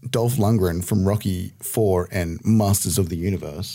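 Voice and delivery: trailer voice. Shown as a demonstration. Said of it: "give me your trailer voice".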